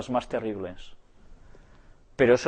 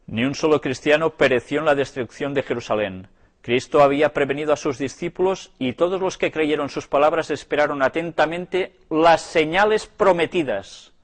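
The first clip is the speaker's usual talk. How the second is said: lectura declamada; 3 semitones higher, 4 dB louder than usual. A narrator's reading. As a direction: read aloud with solemn, emphatic weight. Lee en voz alta un libro. (lectura solemne y enfática)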